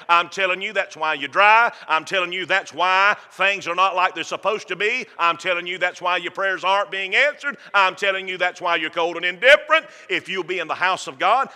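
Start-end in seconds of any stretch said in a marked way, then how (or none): 0.1-9.8 preaching rebuke. Real, not acted.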